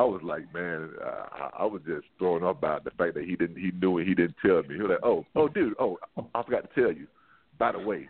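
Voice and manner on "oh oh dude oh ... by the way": lightly imitated laid-back surfer dude. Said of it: "surfer dude voice".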